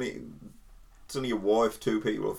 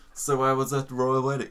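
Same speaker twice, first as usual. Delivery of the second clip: imitating a smug posh English accent; mock posh accent; 2 semitones higher than usual. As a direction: put on posh English for a boast. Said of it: "he puts this really posh accent on".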